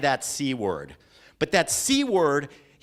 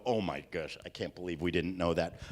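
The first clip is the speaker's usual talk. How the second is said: mock audience gasp; 10 semitones lower, 8 dB quieter than usual. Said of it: "you guys are gonna go".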